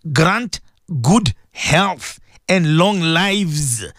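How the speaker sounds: drawn out, slow devotional plea; slow prayer. Acted. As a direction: stretch each word in prayer. Repeats the intention.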